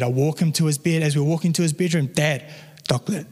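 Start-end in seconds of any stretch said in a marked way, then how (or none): 2.1-3.3 lightly voiced small boy, lower; toddler son. Son on the walk back to bed, lightly imitated toddler. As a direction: pester dad in baby talk, "doclet" for chocolate. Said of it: "that's how he sounds".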